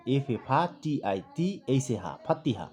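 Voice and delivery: ফাতিহা spelled letter by letter, each syllable sounded, then the whole name; spelling aloud. Shown as a demonstration. Teacher shows how a student spells at home, spelling ফাতিহা by syllables. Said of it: "প্রথমে স্টুডেন্টরা বানান করবে".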